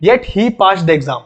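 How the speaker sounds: very slow, careful reading of the example; spaced word-by-word English; read aloud slowly. Shown as a demonstration. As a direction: show the class how it's read, slowly. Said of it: "पढ़ेंगे कैसे?".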